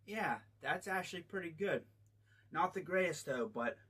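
speaking around a drink straw; talking with straw at lips. Real, not acted. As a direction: cup held against mouth. Seen 1: Cup held at mouth, straw near lips; liquid in mouth not visible.

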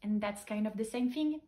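slow English with a French accent; English quip, drawn out in a French accent. Real, not acted. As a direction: recite it slowly in shaky French-accented English. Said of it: "Avec mon accent anglais moisi".

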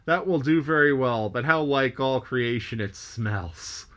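wry, slowing at the end; a lightly voiced sailor sniffing with disgust; mild mock disgust. Stubb mocking the smell.

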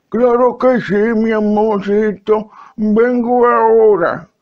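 sweetly obey the wife; lightly voiced old husband. Viejo responde a su esposa.

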